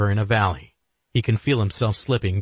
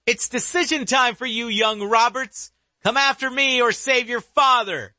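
dark whisper behind you. Acted. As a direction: taunt the young agent. Shooter taunts before escaping.

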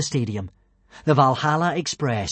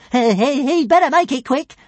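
high, squeaky-pitched urging; little dragon Toothless; 10 semitones higher, 5 dB louder than usual. Acted. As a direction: chatter it in his ear. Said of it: "advised Toothless into Hiccup's ear".

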